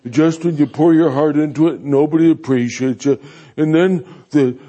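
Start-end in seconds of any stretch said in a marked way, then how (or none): 0.1-3.2 griping pastor. Retold or imitated. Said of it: "griping and complaining".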